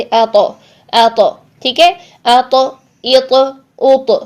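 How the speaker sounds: अ तो, इ तो, उ तो with the त bounced in a qalqala echo. Shown as a demonstration. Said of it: "आवाज़ को हम हिलाएंगे". (अ तो में कलकला)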